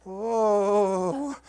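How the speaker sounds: whoa and laughter. Real, not acted. Reacting to knocking himself.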